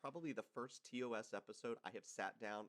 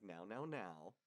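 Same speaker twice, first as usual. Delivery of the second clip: condescending; 4 semitones lower, 6 dB quieter, slower than usual. Retold or imitated. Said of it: "the man schooling the woman".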